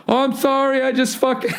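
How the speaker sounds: hammed-up stereotype apologizing in a high pitch; hacky gay voice. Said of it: "doing, like, the hacky gay voice".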